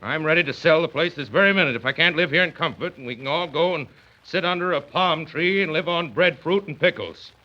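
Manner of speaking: a put-out man laying down the law; stubborn blustering father; indignant father. Acted. Father refuses to dine out.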